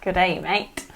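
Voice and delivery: low put-on Aussie greeting; practising a low Australian accent. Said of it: "I want you to do Australian".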